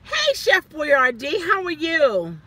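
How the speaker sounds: slow, sing-song mocking hello; mock greeting. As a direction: greet him with fake cheer.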